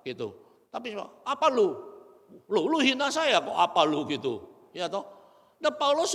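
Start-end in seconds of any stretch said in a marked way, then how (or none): 1.3-4.1 louder, indignant comeback; a man answers an insult indignantly; offended retort. Retold or imitated.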